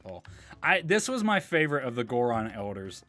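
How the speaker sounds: normal talking voice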